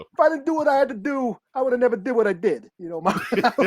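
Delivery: Mario Soprano. Pretend. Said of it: "Mario Soprano".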